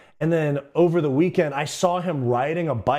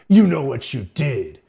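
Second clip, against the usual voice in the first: louder accusing principal voice; mock stern principal, loud; 6 dB louder than usual. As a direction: catch the kid red-handed. Principal grabs him by shirt.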